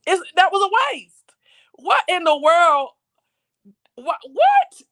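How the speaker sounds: whispered in disbelief; shocked whisper. Real, not acted. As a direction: hush it out, stunned.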